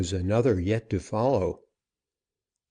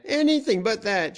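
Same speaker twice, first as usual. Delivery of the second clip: much higher, rising panic on anything; frantic begging; 13 semitones higher than usual. A narrator's reading. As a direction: repeat it even more desperately. Prisoner begs not be branded.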